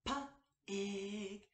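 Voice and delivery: "P-ig" split into P and ig; sounded out. Shown as a demonstration. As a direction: pull "P-ig" apart sound by sound. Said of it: "break down the beginning, middle, and ending sound".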